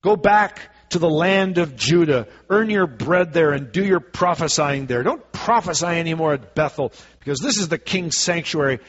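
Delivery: measured, declaiming Bible reading; scripture reading. Acted. Preacher reads Amos to the church, declaiming. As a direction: read the prophecy aloud to the congregation.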